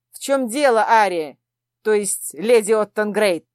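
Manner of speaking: the prince snapping at the lady; angry question. Acted. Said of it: "зло поинтересовался".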